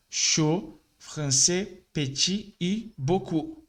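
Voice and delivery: Chaud, français, petit, beaucoup with endings dropped, slow; silent final consonants. Shown as a demonstration. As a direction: say each word without its last consonant. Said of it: "Com a letra D no final". (consoantes finais sem som)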